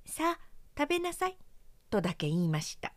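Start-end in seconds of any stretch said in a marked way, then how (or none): 0.1-1.4 holding back anger. A narrator's reading. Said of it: "無理にこらえて".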